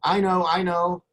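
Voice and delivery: mimicking keen students in class; eager know-it-all students. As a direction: pipe up like a pupil who has the answer. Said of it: "some people are like".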